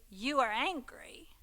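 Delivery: slow breathy whisper on you are angry; a whispered point, slow and pointed; emphatic hushed whisper. Shown as a demonstration. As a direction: drop to a whisper to drive it home. Stating the truth about anger.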